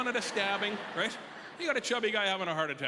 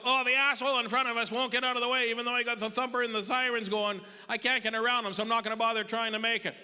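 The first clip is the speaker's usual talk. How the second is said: driver shouting; 5 semitones higher than usual. Retold or imitated. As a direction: call it back over the sirens. Driver shouting back over sirens.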